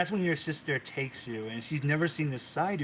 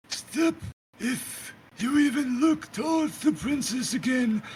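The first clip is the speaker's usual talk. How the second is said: threatening shout; 9 semitones higher than usual. Acted. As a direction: threaten him through a shout. Scarlet threatens Creeper.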